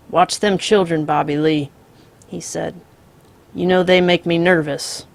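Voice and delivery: calm drawling outlaw. Acted. The Misfit voiced.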